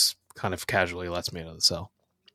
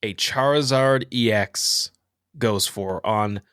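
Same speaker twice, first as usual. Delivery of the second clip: quiz host; 3 semitones higher, slower than usual. Pretend. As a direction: draw out the question like a game host. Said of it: "quiz host asking".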